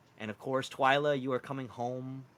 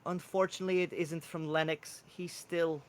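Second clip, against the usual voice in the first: hesitant Welsh character voice, slightly raised; Welsh accent; 5 semitones higher than usual. Acted. Mushroom man tells Twyla Lennox hasn't written, hesitant Welsh accent. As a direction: break bad news haltingly, lightly Welsh. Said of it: "He has this harsh Welsh accent".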